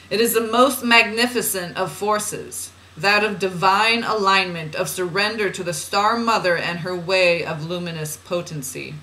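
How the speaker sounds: measured, deliberate spiritual reading; oracle reading. Acted. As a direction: read it out as solemn guidance. Reads channeled guidance aloud.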